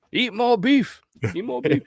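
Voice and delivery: high squawky chant; chicken voice. Pretend. S0 continues chicken voice.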